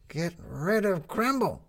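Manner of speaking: put-on high, slow girl's voice; Lizzie. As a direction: state the obvious slowly in a kid's voice. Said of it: "said Lizzie".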